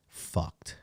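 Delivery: hushed, blunt fucked; whispered. Real, not acted. Pause before the blunt word.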